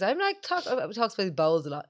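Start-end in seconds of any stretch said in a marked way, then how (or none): 0.0-0.6 higher, lightly voiced old farmer; a hint of the proud dad; imitating her dad. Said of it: "every morning he says".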